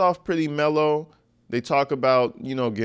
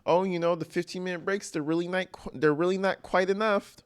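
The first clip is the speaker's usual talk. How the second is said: sarcastic imitation, mock complaining; mocking Stefan Stearns; 5 semitones higher, faster than usual. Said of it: "a forty-year-old man".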